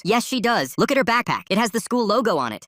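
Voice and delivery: high, forceful argument; insistent retort. A narrator's reading. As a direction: argue back urgently, pitched high. Accusing mother argues back.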